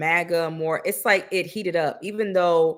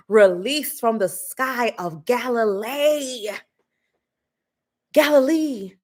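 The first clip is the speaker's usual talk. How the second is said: mock prophet; 2 semitones higher, 4 dB louder than usual. Mocking a widow's doomsday speech as a grand prophet. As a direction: proclaim fire and dragons like an overblown prophet.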